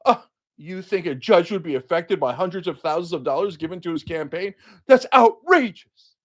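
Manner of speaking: hammed-up indignation; mock outrage. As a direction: sneer it like a scandalized pundit. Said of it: "people like Suzanne come in and go".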